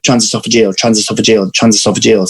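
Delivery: drilling a jargon word over and over; repetitive drill. Shown as a demonstration. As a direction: repeat it evenly, like muscle-memory practice. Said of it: "say it over and over again".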